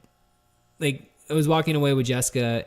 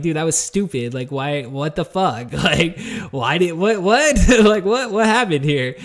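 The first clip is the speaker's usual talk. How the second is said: laughing disbelief; 3 semitones higher, 5 dB louder than usual. Retold or imitated. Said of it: "it's like".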